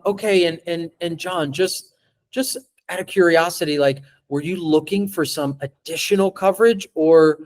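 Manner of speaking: relaxed, interested questioning; calm curious question to John; curious delivery. Shown as a demonstration. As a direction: ask as if you truly care. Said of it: "Let me read it to you how I read it".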